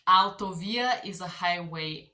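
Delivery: Autovía said al-to-VI-a; Autovía pronounced in Spanish; Spanish word. Shown as a demonstration. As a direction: stress the VI in Autovía. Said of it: "let's try this".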